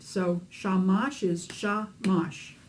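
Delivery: "shamash" said slowly, each syllable a beat. Shown as a demonstration. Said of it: "Two beats, two syllables".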